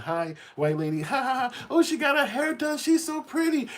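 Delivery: very high, sugary put-on voice with fake giggle; high falsetto mock politeness; mock sweet child. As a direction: gush like a too-polite kid. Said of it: "on my P's and Q's".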